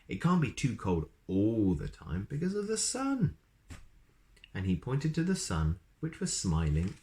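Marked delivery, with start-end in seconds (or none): 0.1-3.4 snorting wizard. Acted. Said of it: "snorted the wizard".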